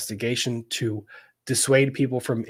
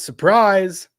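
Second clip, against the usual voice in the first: higher, louder second surprise; 6 semitones higher, 8 dB louder than usual. Real, not acted. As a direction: punch it out loudly. Sarcastic reveal, repeated.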